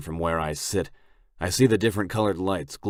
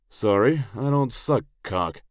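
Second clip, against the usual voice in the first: loud blunt refusal; 6 semitones higher, 6 dB louder than usual. A narrator's reading.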